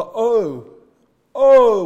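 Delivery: rising loud groaning oh; mourning oh. Shown as a demonstration. Preacher showing how mourning sounds, loud groaning oh. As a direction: cry the oh out in sorrow. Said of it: "will indicate the mourning".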